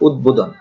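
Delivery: উদ্বোধন as "ud-bodhon"; correct pronunciation. Shown as a demonstration. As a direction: sound the b after the d in উদ্বোধন. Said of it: "এর উচ্চারণ হচ্ছে".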